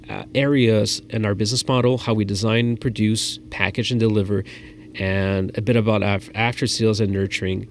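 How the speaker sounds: polished business pitch voice; pro presenter. Shown as a demonstration. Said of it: "So delivering like a pro means you're like".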